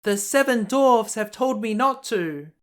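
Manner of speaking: put-on a sweet girl refusing politely; Snow White's voice. Snow White apologizes to the old woman, high girlish voice.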